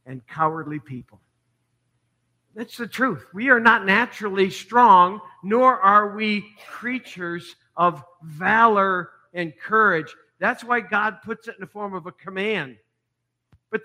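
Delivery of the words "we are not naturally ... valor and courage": emphatic. Real, not acted. Preacher driving home a point.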